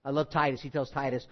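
usual speaking voice

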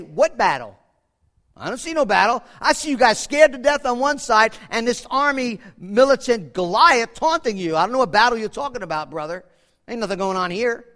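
loud, dismissive brush-off; mock street-tough dismissal; streetwise retort. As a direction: scoff at the brother like a tough kid. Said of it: "That's what I would have said".

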